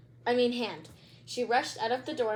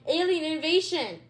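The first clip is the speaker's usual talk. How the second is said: hiccuping; 6 semitones higher, 6 dB louder than usual. Acted. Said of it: "Stink hiccuped".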